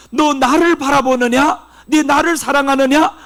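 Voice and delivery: voicing the Lord's question. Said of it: "우리 주님이 묻는단 말이에요".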